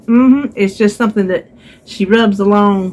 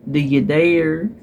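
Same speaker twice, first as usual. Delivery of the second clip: slow self-dare; 4 semitones lower, 3 dB quieter, slower than usual. Retold or imitated. Daring herself in thought.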